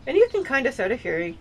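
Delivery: teeth-clenched ventriloquist talk; talking through clenched teeth. Shown as a demonstration. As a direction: speak without moving your jaw. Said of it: "I can talk like this still".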